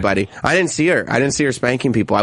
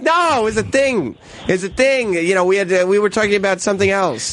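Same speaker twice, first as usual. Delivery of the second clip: defensive husband; 6 semitones higher than usual. Retold or imitated. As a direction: play innocent in a squeaky high voice. Defending himself to wife.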